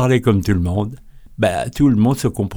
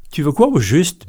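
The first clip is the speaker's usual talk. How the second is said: condescending; 7 semitones higher than usual. Retold or imitated. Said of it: "avec une sensible pointe de condescendance".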